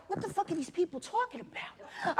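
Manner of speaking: high, laughing what-the-hell; watching Yellowstone, laughing and baffled; laughing disbelief. Retold or imitated. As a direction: laugh through the question. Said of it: "I was like".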